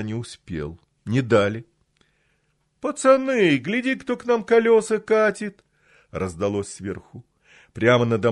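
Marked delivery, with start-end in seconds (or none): 2.8-5.6 high, loud street thug call; thug shouting. Acted. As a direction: yell it down like a gopnik. Thug calls out from above.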